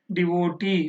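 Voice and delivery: devotee with stress on the final E sound; last-syllable stress. Shown as a demonstration. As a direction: hold the tee of devotee. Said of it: "that is E sound". (devotee చివరి E శబ్దంపై ఒత్తిడి)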